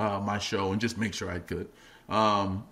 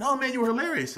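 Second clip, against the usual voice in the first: mock praise; 14 semitones higher, faster than usual. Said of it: "everybody's going".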